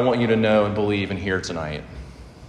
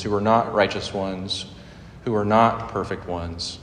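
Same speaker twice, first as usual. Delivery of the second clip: earnest prayer; 3 dB quieter than usual. Real, not acted. Preacher praying to the Lord for the congregation, earnest prayer. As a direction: pray gently and earnestly, lingering between phrases.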